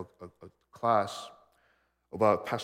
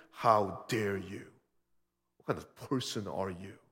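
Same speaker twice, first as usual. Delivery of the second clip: condescending indignation; 3 semitones lower than usual. Retold or imitated. Preacher mimicking a prideful confrontation, condescending. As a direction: look down your nose at them. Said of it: "condescending, prideful attitude".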